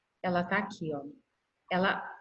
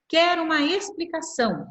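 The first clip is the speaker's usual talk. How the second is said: nervous teacher; 6 semitones higher than usual. Retold or imitated. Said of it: "bem nervosa".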